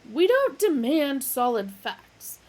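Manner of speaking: ranting philosopher; shouting. A narrator's reading. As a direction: shout without pausing. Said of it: "Roomfondle shouted".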